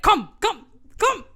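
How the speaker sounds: loud, high, hammed-up beckoning; urgent calling out. Groom calling bride down the aisle, urgent shout. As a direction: call her over in short high shouts. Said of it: "calling her to the end of the aisle".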